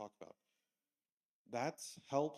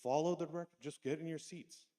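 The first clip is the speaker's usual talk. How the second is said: raised, exasperated voice at the class; frustrated teacher; 4 semitones higher, 5 dB louder than usual. Retold or imitated. Teacher to lost students, frustrated and loud. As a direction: scold the lost kids, higher and louder. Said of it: "and I got frustrated".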